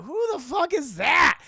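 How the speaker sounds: high, loud mock alarm; startled demand. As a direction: shout it out in startled disbelief. Peter startled by the villain's laugh.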